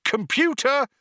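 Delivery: high, loud call to the computer; shout. A narrator's reading. Zaphod calls the ship's computer, shouting. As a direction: shout it out sharply, pitched right up. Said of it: "shouted Zaphod".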